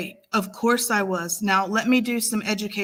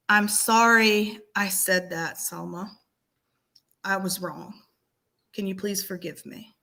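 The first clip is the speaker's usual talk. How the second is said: sincere apology. Shown as a demonstration. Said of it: "That's how you".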